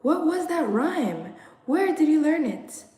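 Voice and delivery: put-on frightened parents questioning the children, high and urgent; alarmed cry. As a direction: demand it, frightened. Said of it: "voices cried".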